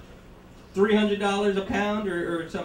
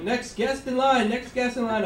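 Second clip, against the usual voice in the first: tired bored cashier; 6 semitones higher than usual. Retold or imitated. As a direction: drone it like a weary cashier. Popcorn guy calling customers.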